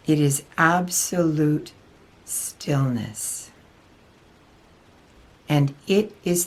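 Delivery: lightly voiced spiritual teacher, measured and deliberate; channelled Archangel Michael. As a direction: deliver a solemn channelled message with long pauses. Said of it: "Archangel Michael especially has been interested in coming through".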